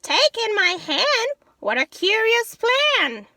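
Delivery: put-on high, loud pleading old lady. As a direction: beg loudly like a flustered little old lady. Old lady answers wise man.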